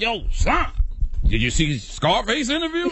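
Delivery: excited fan voice. Retold or imitated. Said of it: "my fans hit me up like".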